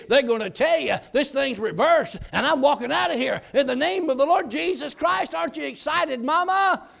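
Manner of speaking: loud, high, rushing good news; bursting with excitement; excited. Retold or imitated. Son on the phone telling mama his news, excited. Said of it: "Calm down, son".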